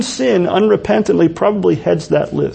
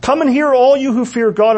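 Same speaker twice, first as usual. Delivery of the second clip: street-corner proclaiming; 4 semitones higher than usual. Retold or imitated. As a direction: call it out like a preacher on a corner. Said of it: "on the street corners shouting it out".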